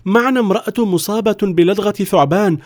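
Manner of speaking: high, imploring explanation; desperate villager pleading. Acted. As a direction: beg him to let them in. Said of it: "وتوسل إليه أحد الرجال".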